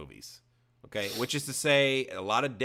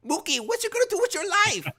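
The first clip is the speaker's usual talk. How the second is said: high, fast mock Rosie Perez accent; a garbled attempt at a Rosie Perez accent; 4 dB louder, faster than usual. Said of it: "I don't know what that accent I was trying to do".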